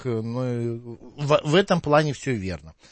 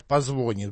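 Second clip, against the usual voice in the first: "позвонит" stressed on the middle syllable, позвОнит; colloquial stress shift; 4 semitones lower, 4 dB quieter than usual. Shown as a demonstration. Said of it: "люди вот говорят".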